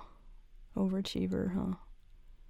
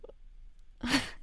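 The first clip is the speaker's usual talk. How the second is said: nervous laugh; 4 semitones higher, 5 dB quieter than usual. Acted. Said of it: "I'm nervous laughing".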